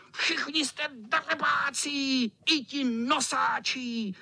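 high, slow name-calling cat; cat cursing. A narrator's reading. Carried-off cat curses the boys and elephants. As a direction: hurl the insults. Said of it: "nadával".

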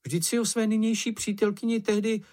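high, squeaky indignant cry; Sniff exclaiming. A narrator's reading. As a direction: pitch up and protest like Sniff. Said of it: "vykřikl Čenich". (vysoký pištivý výkřik Čenicha)

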